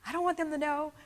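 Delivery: high startled what, then a hushed protest; mock alarm at the idea; yelping surprise; shocked disbelief. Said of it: "I'm like".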